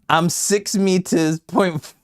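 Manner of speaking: high, slow joke spoken through laughter; laughing. Real, not acted. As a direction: giggle out the silly boast. Jokes about height, laughing.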